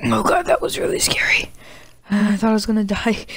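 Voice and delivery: breathy whisper after a scare; relieved whisper. Real, not acted. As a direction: whisper it, still shaken.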